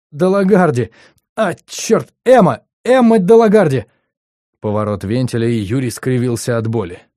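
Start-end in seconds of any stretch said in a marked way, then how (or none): 0.1-3.9 high, loud frantic outburst; a terrified young man yelling in pain; panicked shouting. Acted. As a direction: blurt it out in panic, half screaming. Ron panics under torture questioning.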